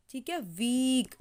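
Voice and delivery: slow, the ee of वीक long; teacher spelling out वीक slowly; slow demo. Shown as a demonstration. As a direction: stretch the ee in वीक. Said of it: "बड़ी की मात्रा लगती है".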